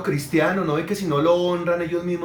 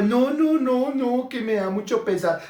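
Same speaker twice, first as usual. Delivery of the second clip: high-pitched mock fatherly protest; string out high noes as a refusing dad; reluctant father; 7 semitones higher than usual. Father turning down his child's gifts, high mock protest. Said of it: "Y el papá".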